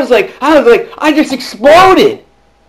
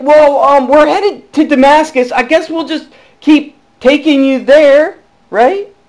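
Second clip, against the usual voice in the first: higher, louder, puzzled travellers; Saul's companions; 5 semitones higher, 3 dB louder than usual. Retold or imitated. Saul's companions on the road to Damascus, higher and baffled. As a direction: shrug along in confusion.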